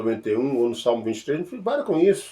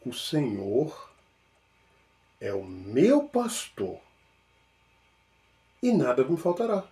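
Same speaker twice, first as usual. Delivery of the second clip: slow pondering; 5 dB quieter than usual. Shown as a demonstration. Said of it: "vai pensar assim".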